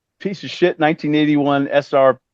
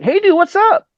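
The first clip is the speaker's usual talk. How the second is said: mock surfer dude greeting; 4 dB louder than usual. Retold Vince greeting on phone.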